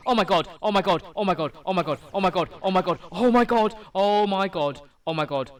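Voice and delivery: excited shouting. Real, not acted. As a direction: shout it over and over. Shiny appears, stunned.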